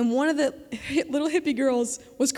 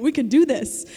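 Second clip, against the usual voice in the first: rising, louder encouragement; encouraging; 6 dB louder than usual. Acted. God encouraging the listener, louder and building. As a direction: cheer her on with growing force. God's promise voiced.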